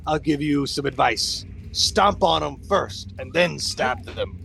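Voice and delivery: lightly voiced hero counsel; advising hero. Hero advises party on pesky rats, theatrical.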